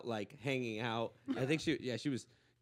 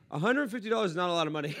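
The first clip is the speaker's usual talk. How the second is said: retold blurt; 4 semitones higher, 6 dB louder, faster than usual. Blurted first reaction to her price.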